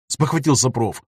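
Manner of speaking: ordinary delivery, nothing marked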